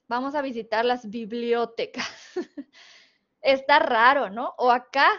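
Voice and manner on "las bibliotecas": "bibliotecas" wrongly stressed on BLIO inside the sentence. Shown as a demonstration. Teacher trying the odd esdrújula in a sentence, stress on blio. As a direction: put the accent on blio in "bibliotecas". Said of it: "suponiendo que fuera esdrújula".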